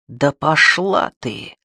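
slow, bitter grumble under the breath. Acted. Alexei alone after the door slams, bitter grumble. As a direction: mutter it after her, bitterly. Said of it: "проворчал Алексей с горечью".

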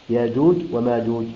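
ياجوج وماجوج with the hamza turned to a long alif, no glottal stop; Qalun reading. Shown as a demonstration. Reciting teacher shows Qalun's reading of ياجوج. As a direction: say ياجوج as yājūj, no catch in the throat. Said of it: "أي تبدل ألف".

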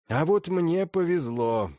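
put-on high, slow creaky old woman's voice. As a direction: rasp it out like an old princess. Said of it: "продолжала скрипучим голосом старая княгиня".

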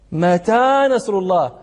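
drawn-out question, stress on متى; slow, lingering question. Shown as a demonstration. Teacher slows down to show the impatient plea for help. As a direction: slowly stretch متى نصر الله as a plea. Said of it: "يستبطئون النصر لشدة البلاء".

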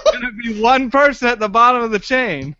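laughing through the words; chuckling while explaining. Real, not acted. Amused at the chain illustration.

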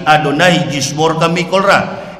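slow solemn intoning; Hebrew recitation. Shown as a demonstration. Preacher demonstrating the Hebrew blessing, slow and solemn. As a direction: intone it like a cantor. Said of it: "bahasa Ibrani".

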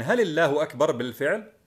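"هل الله أكبر بالفعل" asked as a real question; questioning tune. Shown as a demonstration. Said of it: "تجعلها استفهاما". (نبرة استفهام في "هل الله أكبر بالفعل")

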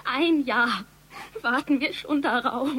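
loud, accusing complaint; reproachful. Acted. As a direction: push back hard at him. Daughter quarrels with father.

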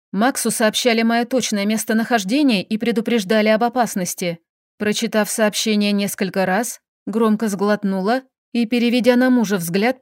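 plain reading voice

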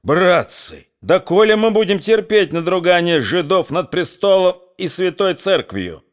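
trembling rabble-rousing. Acted. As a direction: whip up the mob with fake tears. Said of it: "говорил он дрожащим, плачущим голосом".

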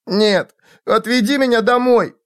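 put-on very high pleading child voice; frightened child. A narrator's reading. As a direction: beg for nanny like a scared little one. Child begs to be taken home.

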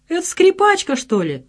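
teasing question starting high; a sly, knowing dig; smirking. A narrator's reading. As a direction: Kosmos teasing his friend about a girl. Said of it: "ухмыльнулся Космос".

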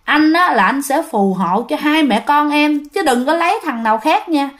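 lightly acted sulky plea to a wife; jealous sulking. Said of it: "là cái kiểu giận hờn, hờn lẫy, hờn ghen". (giả giọng chồng hờn ghen, dỗi nhẹ)

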